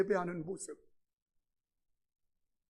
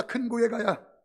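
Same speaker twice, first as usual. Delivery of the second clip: loud call and response; 2 semitones higher, 9 dB louder than usual. Shown as a demonstration. Pastor leads the congregation to repeat, loud. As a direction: lead the crowd in a loud echo. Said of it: "따라서 합시다".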